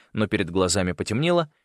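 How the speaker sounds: usual speaking voice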